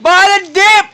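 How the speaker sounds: loud high hype yell; excited crypto bro. Real, not acted. Loudly hyping the toddler's line.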